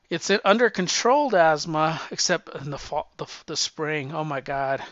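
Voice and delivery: winded, breathless talking; out of breath. Real, not acted. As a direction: speak short of breath, needing a puff. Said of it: "I'm sort of winded right now".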